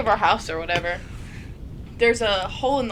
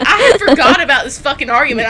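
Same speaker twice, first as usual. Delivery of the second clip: retold exasperation; 3 semitones higher, 9 dB louder than usual. Acting out his exasperation, laughing.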